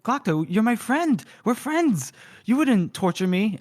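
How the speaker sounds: high-pitched, naive protest; acted disbelieving appeal; mock pleading. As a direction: plead like a betrayed friend, hammed-up. Retold friend pleading against torture.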